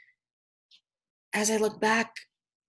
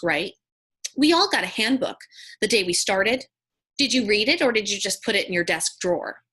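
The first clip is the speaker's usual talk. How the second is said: pointed, officious retold confrontation; accusing coworker; 3 dB louder than usual. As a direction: imitate a coworker quizzing someone on the rules. Officemate confronts June about pin.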